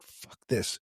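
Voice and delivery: soft, breathless whispered aside; whispered curse. Retold or imitated. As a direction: hiss it under your breath. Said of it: "It's like".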